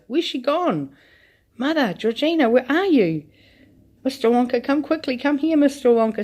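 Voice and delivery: high, loud, rising panic; frantic crying out. A narrator's reading. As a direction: cry out frantically. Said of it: "Missus Bucket cried out".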